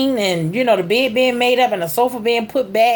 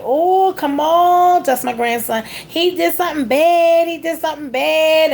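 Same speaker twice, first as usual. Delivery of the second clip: put-on tattling child; 6 semitones higher than usual. Three-year-old telling on grandma's grandson, tattling. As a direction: imitate a little girl's insistent tattling.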